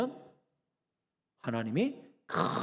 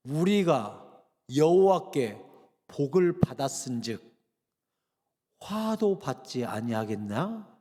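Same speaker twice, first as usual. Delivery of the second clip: slow solemn quote; 4 semitones lower, slower than usual. Retold or imitated. Job's reply quoted.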